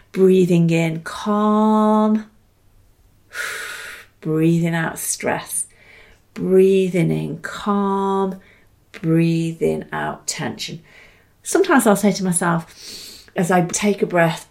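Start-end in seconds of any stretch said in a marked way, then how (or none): 0.1-10.8 breathing mantra. Shown as a demonstration. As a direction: breathe the words in and out.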